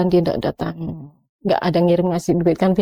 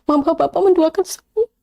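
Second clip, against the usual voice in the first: rising reproach; 6 semitones higher than usual. Retold or imitated. Wife accusing her husband of abandoning her, building reproach. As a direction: let the hurt climb word by word to a high accusation. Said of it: "saya bilang gitu".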